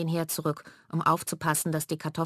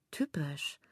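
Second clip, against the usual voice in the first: whispered scoff; 9 dB quieter than usual. Acted. Mela scoffing.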